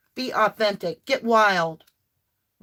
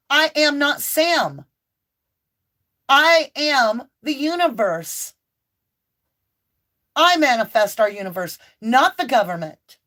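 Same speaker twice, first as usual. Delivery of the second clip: mock defiant outburst; 3 semitones higher than usual. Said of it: "it is okay to say".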